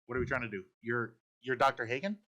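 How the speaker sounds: guards caught off guard, calling out to stop him; sudden loud whoa, then settling into questions; startled guards. Acted. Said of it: "the security officers go".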